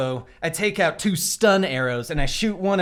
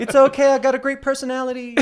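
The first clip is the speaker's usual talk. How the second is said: laughing; 10 semitones higher, faster than usual. Real, not acted.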